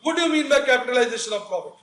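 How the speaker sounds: lightly voiced interviewer, asking slowly; slow interviewer question. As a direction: ask it slowly like a formal interviewer. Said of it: "interview में आपसे पूछ सकता है कोई". (धीमे से पूछा गया इंटरव्यूअर का सवाल)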